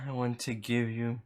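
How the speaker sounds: creepy guy voice. Acted. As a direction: savor each word like a stalker. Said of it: "pretty good creepy guy voice".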